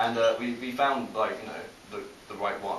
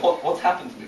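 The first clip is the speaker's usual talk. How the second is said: raised, loud bewildered plea; mock anguish; 7 semitones higher, 7 dB louder than usual. Runner horrified at the change, mock-distraught. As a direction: lament it in comic dismay. Acted runner baffled at becoming monster.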